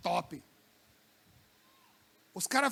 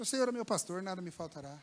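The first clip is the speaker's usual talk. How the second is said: quiet psalm sinking lower toward the end; hushed, reverent recitation; soft recitation; 4 semitones lower, 7 dB quieter than usual. Shown as a demonstration. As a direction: speak the verse gently, dropping low on nada. Reciting psalm, troubled marriage.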